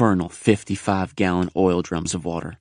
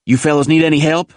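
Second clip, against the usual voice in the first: put-on older Marine offering help; 7 semitones higher, 4 dB louder than usual. A narrator's reading. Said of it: "asked a Marine who appeared".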